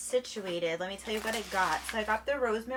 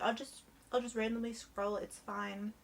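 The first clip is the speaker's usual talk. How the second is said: offhand; 5 dB quieter than usual. Retold or imitated. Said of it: "I was literally just like".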